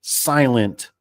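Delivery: drawn-out, slow joking explanation; slow deadpan punchline. Retold or imitated. Vendor explaining Silent Glide to Dave, slow deadpan. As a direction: stretch each word like a punchline. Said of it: "he goes".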